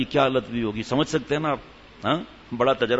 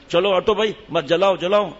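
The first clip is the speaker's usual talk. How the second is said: calling out; 5 semitones higher, 3 dB louder than usual. Acted. Husband calls out to workers.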